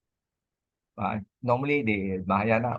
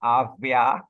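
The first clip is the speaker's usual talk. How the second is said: Avia repeated louder for the listener; 4 dB louder than usual. Real, not acted. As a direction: raise your voice so Avia carries. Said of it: "Sorry, can you speak louder".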